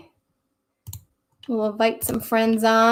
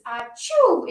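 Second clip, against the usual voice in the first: mock sneeze; 4 semitones higher, 3 dB louder than usual. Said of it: "You might sneeze".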